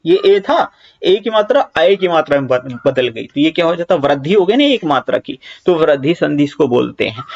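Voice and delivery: normal talking voice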